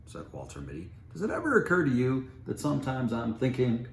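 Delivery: loud, high, indignant retort; exasperated protest. Acted. Mitty protesting to his wife, loud and indignant. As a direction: push back at the wife.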